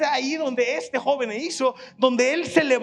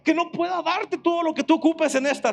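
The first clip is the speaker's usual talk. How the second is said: raised, ringing preacher's voice; preaching at full force; 4 semitones higher than usual. Real, not acted. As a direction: build the fervour and drive it home. Preacher building to climax. (predicando con fuerza y voz elevada)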